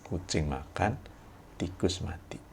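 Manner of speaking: "Kucing makan", short break, then "tikus mati"; pause after makan. Shown as a demonstration. Lecturer repeats the sentence with a pause after makan. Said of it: "Jeda, ya".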